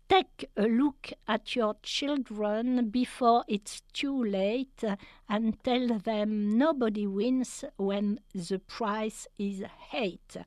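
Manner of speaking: slow English rap lines read in a French accent. Shown as a demonstration. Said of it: "pardon pour mon accent anglais". (rap anglais lu lentement avec un accent français)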